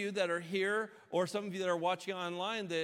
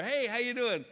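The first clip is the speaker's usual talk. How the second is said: acted greeting; 8 semitones higher, 5 dB louder than usual. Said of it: "thing that we all do to each other".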